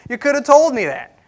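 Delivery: exasperated retort. Retold or imitated. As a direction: fling it back at Laban, fed up. Repeats Jacob's complaint, louder.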